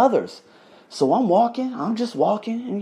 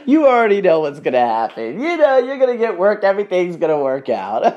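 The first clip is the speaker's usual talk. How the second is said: imitating an upbeat, laughing friend, louder; cheerful; 4 dB louder than usual. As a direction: breezily reassure him as his cheerful friend. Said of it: "She was so cheerful".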